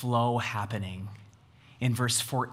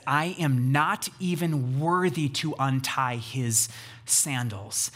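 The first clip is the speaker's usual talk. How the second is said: slow, weighted "not", falling away on "sandals"; emphatic denial; slower than usual. Retold or imitated. Preacher voices John deferring to Jesus, emphatic denial. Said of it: "the emphatic nots of John".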